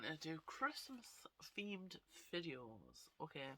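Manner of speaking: hushed unvoiced whisper. Real, not acted. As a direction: breathe it out in a whisper. Sudden whisper, no reason given.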